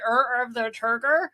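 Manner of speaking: "Er, of the Turker" with every vowel turned to er; imitated mispronunciation. Co-host quoting a garbled reading, er-heavy "Turker". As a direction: swallow "Turker" into er sounds. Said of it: "like, when he said".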